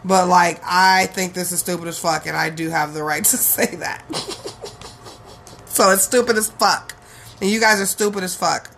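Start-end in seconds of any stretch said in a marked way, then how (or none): 4.1-5.1 soft, breathy-quiet chuckle; quiet laugh. Real, not acted. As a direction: chuckle softly to yourself. Laughs at own blunt opinion.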